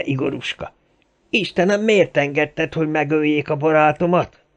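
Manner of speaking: high, anguished lament; wailing vow of revenge. A narrator's reading. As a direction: cry out in grief and fury. Wailing vow of revenge over body. (magas hangon, kétségbeesve jajveszékelve)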